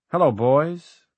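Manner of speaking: a first try at a doll's greeting, rising; testing out a puppet voice; ventriloquist's first attempt. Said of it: "trying not to move his lips".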